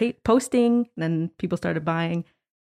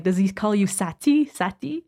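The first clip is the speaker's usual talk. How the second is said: teasing question, rising on the repeated name; mock-curious teasing, lilting up at the end. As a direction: imitate a friend playfully teasing about a name. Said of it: "he kinda was teasing me".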